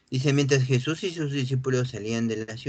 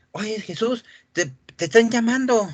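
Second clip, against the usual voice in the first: urgent crowd call; 9 semitones higher, 5 dB louder than usual. Acted. Acting what the crowd should say.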